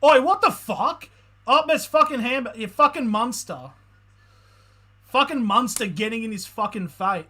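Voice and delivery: loud, high, outraged fan yelling at the screen; furious yelling. Real, not acted. Fan yelling at the player on TV, furious shout. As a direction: bellow it at the telly, really fuming.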